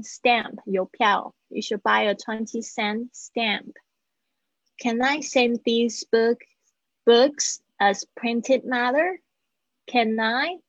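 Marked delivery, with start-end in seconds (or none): 0.0-0.6 "stamp" with the A as in "cat"; careful teacher's "stamp"; clear A vowel. Shown as a demonstration. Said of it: "注意一下你们A的发音". 9.9-10.6 "Can I" run together as "ca-nai"; teacher's linked "ca-nai"; linked words. Shown as a demonstration. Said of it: "有一个连音".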